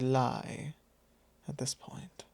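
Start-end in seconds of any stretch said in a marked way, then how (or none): 1.5-2.2 whispered with a rising tease on this; menacing whisper. Acted. Vampire whispering to the thrall about where his loyalties lie. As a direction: breathe it close and sly.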